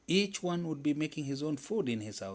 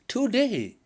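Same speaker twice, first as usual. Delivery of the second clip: high, loud squealing insistence; emphatic squeal; 5 semitones higher, 7 dB louder than usual. A narrator's reading. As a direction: squeal each phrase as a vow. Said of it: "Squirrel squealed emphatically".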